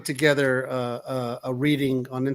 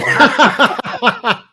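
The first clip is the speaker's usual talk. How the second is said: laughing; 8 semitones higher, 8 dB louder than usual. Real, not acted. Laughs at Jack Frost suggestion.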